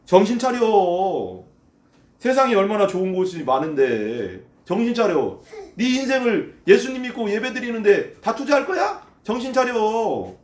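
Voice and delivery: drawn-out scornful urging; mocking, insistent appeal; worldly tempter. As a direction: talk them out of believing, stretching the endings. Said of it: "사람들이 계속 말하는 거지".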